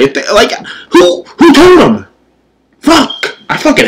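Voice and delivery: fake-cry it in mock despair. Mock despair at game villains.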